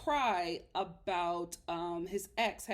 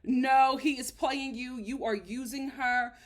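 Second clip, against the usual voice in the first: imitating firm expert; 2 semitones higher, 5 dB louder than usual. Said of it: "Doctor Viviana is just like".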